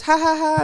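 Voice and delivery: imitated ha-ha laugh, spoken out; mock laugh. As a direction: act out someone laughing it off. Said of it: "And then he goes".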